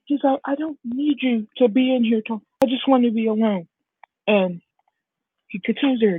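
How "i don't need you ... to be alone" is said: put-on raised-pitch, protesting boy voice; upset rejection. Deku wanting to be alone in his room, upset. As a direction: act out a child pushing mom away.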